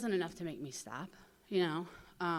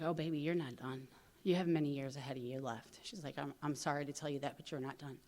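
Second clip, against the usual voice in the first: gentle warning; 4 semitones lower, 4 dB quieter, faster than usual. Retold or imitated. Older junkie gently warns her.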